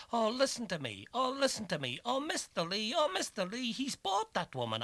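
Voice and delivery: high, loud, desperate calling; begging cry, pitched high and loud; calling through the door. A narrator's reading. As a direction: plead loudly through a shut door. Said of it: "I called to Owl Anthony through the door".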